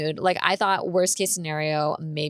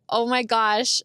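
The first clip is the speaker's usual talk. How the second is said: higher-pitched, upset venting without real tears; retold tearful outburst; 4 semitones higher than usual. Bawling to her friend about car costs, retold upset. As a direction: plead it, retelling a meltdown. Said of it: "I just start crying".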